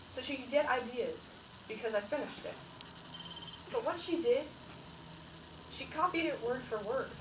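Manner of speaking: halting storyteller with long pauses; measured first-person reminiscence, thoughtful gaps; elderly interviewee reminiscing. Acted. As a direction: recall your school days haltingly, pausing between phrases. Plays the interviewee telling his life story.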